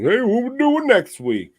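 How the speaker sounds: high, bright put-on squeak; mock high squeaky voice. Mock squeak asking about next week. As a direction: pitch way up, playful. Mock quote of future chat.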